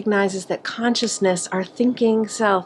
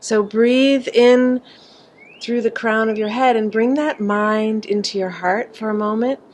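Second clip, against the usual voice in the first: measured, unhurried breathing cues; guided meditation; 2 semitones higher, 3 dB louder than usual. Acted. Teacher leading group from mind into heart, guided meditation voice. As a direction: draw out the breath cue, then guide gently onward.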